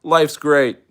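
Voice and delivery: high, loud, drawn-out delight; acted delighted viewer. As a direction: play a happy TV watcher, voice lifted. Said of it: "And you're like".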